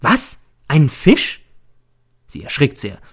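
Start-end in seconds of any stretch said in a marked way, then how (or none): 0.0-1.4 high, loud shocked yell; sudden alarmed outburst; startled cry. A narrator's reading. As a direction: jump up and cry out.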